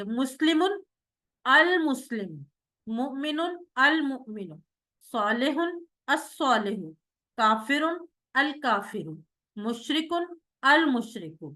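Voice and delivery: each word then its al- form, clearly chanted; model recitation. Shown as a demonstration. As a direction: recite the drill slowly for the class. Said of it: "جی، کون کروائے گا؟".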